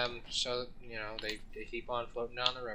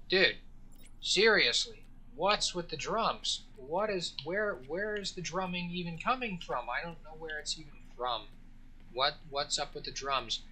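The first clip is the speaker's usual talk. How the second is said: agitated tourist; 4 semitones higher than usual. Retold or imitated. Nervous tourists badgering the guide about the drums, high and whiny. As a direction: pester the guide, rattled and insistent. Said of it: "they're saying".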